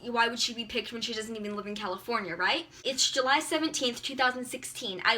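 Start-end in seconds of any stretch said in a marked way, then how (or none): 0.0-2.7 softer, lower private thought voice; mom's doubtful inner voice, low and soft; imagined inner thoughts. Retold or imitated. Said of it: "thinking in her head".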